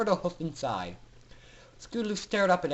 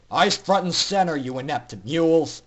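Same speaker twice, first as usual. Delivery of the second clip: louder barked order; shout; 5 dB louder than usual. Acted. Suited guard shouts orders at captive ponies, loud. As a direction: bark it at the prisoners. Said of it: "one of the suited ponies shouted".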